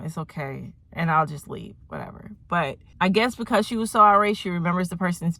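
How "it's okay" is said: low, soft, brush-it-off reply; silently annoyed. Pretend. Vlogger imagining her reply to a drink spiller, quietly annoyed. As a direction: hold the annoyance in and drop the volume. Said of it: "I'll just be annoyed silently".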